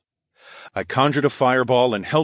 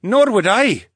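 declaring firmly; 13 semitones higher, 8 dB louder, slower than usual. A narrator's reading. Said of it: "Theo declared".

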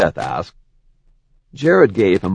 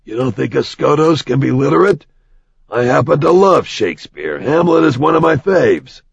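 offended; 4 semitones higher than usual. Acted. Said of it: "he asked in an offended tone".

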